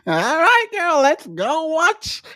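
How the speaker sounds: mock dweeb. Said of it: "dweeb on the phone talking".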